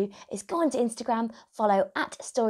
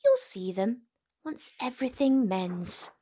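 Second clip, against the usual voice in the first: gentle, lilting storybook read; reading to children; 3 semitones higher than usual. A narrator's reading. Host reading a picture book to young viewers, gently lilting. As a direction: read it like bedtime for little ones.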